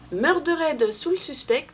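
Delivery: slow, clumsy French-accented English title; bad English accent. Real, not acted. Vlogger joking about her poor English accent, slow heavy French-accented English. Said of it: "toujours mon accent anglais super".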